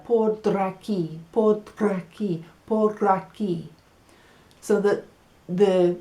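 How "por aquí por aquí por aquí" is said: por draki with a quick d-like tap; tapped r like d. Shown as a demonstration. Teacher shows the tapped r as por draki. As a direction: say draki, the r almost a d. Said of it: "you're almost saying por Dracula".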